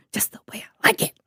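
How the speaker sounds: a fast, eerie whisper. Acted. Host tells listeners she likes scary legends, whispering. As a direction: breathe it out like a secret. Relishing scarier legends aside.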